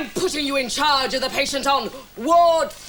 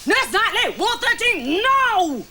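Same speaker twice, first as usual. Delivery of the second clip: high, emphatic command; stern order; 8 semitones higher than usual. Acted. Superior sends nurse to Ward thirteen, stern command. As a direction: order it sharply, pitch raised.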